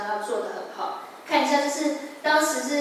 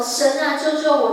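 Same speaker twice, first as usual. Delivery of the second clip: louder desperate plea, pitch up; crying out to God; 3 semitones higher, 5 dB louder than usual. Retold or imitated. Girl crying to God from her hospital bed, loud and pleading. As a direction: call out for rescue in the night. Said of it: "半夜大声呼喊你说".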